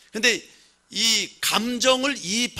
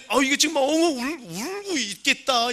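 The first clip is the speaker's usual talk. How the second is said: higher voice, dawning realisation; imagined reader's realisation; 6 semitones higher than usual. Pretend. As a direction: voice the reader who suddenly sees he is weeping. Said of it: "성경을 보면".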